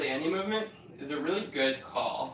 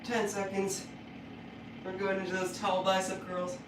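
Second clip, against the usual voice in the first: doing sit-ups; 4 semitones higher, 6 dB quieter than usual. Real, not acted. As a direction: talk through the burn of ab work. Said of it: "My abs are on fire".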